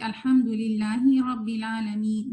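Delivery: "الحمدللہ رب العالمین" slow and nasal throughout; reading through the nose. Shown as a demonstration. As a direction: imitate people who recite everything in the nose. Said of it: "ناک میں پڑھتے ہیں". (ناک میں پڑھنا)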